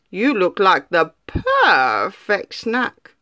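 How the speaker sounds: slow, purring cat voice; slow, sly cat's greeting to the gingerbread man; sly hungry cat. Acted. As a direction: savour each word like a cat eyeing a snack. Hungry cat eyeing the cookie.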